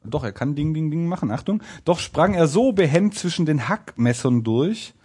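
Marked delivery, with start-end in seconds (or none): 1.8-4.9 measured storybook reading; fairy-tale narration. A narrator's reading. Narrator reading the tailor's narrow escape, storytelling. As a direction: read it out like an old folk tale.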